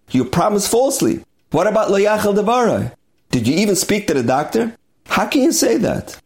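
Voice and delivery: a retold elder sage's mounting astonished reproach; incredulous rebuke. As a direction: scold him, climbing to outraged questions. Elder Rav rebukes the young Rav.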